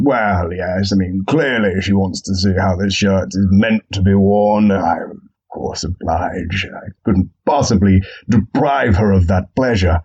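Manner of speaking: smug self-flattery. Retold or imitated. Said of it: "I thought".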